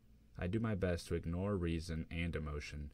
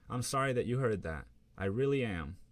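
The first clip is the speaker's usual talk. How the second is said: louder, higher pleading sorry; upset apology; 5 semitones higher, 5 dB louder than usual. Acted. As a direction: insist she means it. Girlfriend upset, defending herself.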